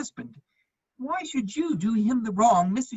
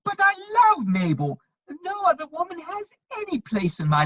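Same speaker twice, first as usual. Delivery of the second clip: earnest protest; 5 semitones higher, 3 dB louder than usual. Acted. Pleading for marriage.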